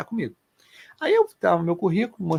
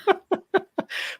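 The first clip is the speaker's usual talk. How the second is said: real laugh. Real, not acted. Laughs at his own story.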